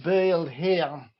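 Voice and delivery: "Bale" said with the A as E-U, slowly; slow "Bale here" with an Ashington vowel; Ashington pronunciation. Shown as a demonstration. Explaining the Ashington twang to a friend, slow vowel demo. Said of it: "how all the A's are pronounced E with a U".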